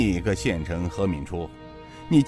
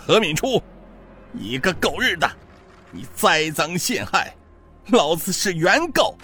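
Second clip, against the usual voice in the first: higher, outraged curses; furious ranting; 8 semitones higher than usual. A narrator's reading. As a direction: spit defiance at the judge. Beaten prisoner cursing the magistrate.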